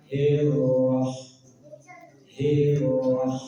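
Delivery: "Hiroh" dengan r ditahan sebentar; tahan sejenak. Shown as a demonstration. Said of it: "Tahan sejenak". ("Hiroh" r ditahan)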